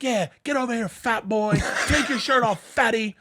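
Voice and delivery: hollering a taunt, half-mocking; mock taunting call.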